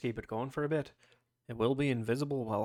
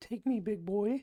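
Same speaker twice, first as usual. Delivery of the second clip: put-on very high, girlish young girl voice; 10 semitones higher than usual. The game master voices Ragnar doing his best young girl impression. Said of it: "You hear Ragnar's best impression of a young girl".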